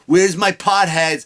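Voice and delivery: slow, drawn-out crowd work; a lightly voiced comic working the room; mock crowd-work comic. Mocking a stand-up comic's crowd work, slowly drawn out. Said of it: "But anyway".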